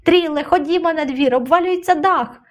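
high-pitched, urgent angry cry; contained storyteller's fury; furious urging. A narrator's reading. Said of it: "Ленин голос тремтів від люті".

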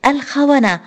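an announcer yelling in alarm; broadcaster screaming. Acted. Radio announcer screams at listeners in the café, rising shout. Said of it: "وصوت المذيع وهو يصرخ".

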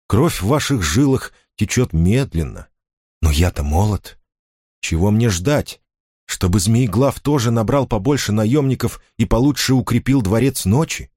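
a hint of an impatient prince; proud young duke. A narrator's reading. Cosimo speaking, voiced.

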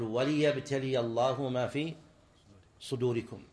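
وليبتلي said slowly as "wa-li-yabtaliya"; slow recital, وليبتلي voweled "wa-li"; lam with kasra. Shown as a demonstration. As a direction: give the lam of وليبتلي a clear short i. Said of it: "ولذلك تكسر هنا".

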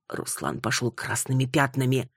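ordinary delivery, nothing marked

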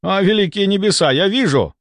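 high-pitched amazed exclamation; awestruck. A narrator's reading. Patient granted magical sight, awestruck. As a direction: cry out at a revelation. Somov awed by sudden sight.

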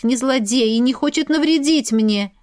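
ordinary delivery, nothing marked

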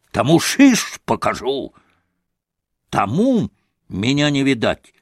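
rising hysterical defiance, half shouted; a mild hammed-up frenzy of defiance; hysterical outburst. Grushenka to Alyosha, mildly hysterical defiance. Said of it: "истерически прокричала".

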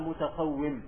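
متقوم said "mutaqawwim"; short i in the last syllable of متقوم; with kasra. Shown as a demonstration. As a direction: pronounce متقوم with kasra on the waw. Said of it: "على أنها بالكسر".

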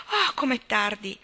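a lightly acted start at the hour; exclaiming. Miss Cornelia noticing the late hour, exclaiming mildly. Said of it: "esclamò la signorina Cornelia".

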